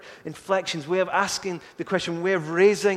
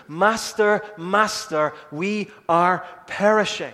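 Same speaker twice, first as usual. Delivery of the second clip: louder urgent exclamation; exclaiming; 4 dB louder, slower than usual. Retold or imitated. Disciples telling the master of the storm, louder exclaim. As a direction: blurt out the danger to the master. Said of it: "They just exclaim the reality".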